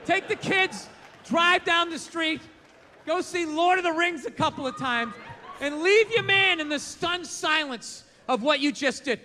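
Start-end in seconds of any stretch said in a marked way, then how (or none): 0.0-8.0 mock command. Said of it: "I mean leave".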